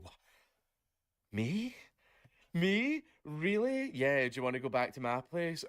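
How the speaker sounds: high, squeaky disbelief, rising on each Me; mock surprised soldier. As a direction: play a soldier who can't believe his luck. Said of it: "the soldier would go".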